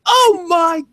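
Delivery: high, slow horrified gasp; shocked. Retold or imitated. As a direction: drag it out in mock horror. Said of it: "I was like".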